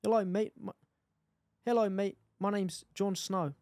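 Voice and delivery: unconvincing put-on South African accent; attempted South African accent. Shown as a demonstration. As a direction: have a halting go at South African. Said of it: "South African".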